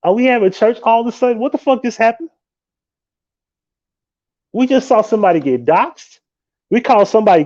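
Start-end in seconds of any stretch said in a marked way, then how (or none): 0.0-2.3 baffled. Retold or imitated. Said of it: "And I'm like".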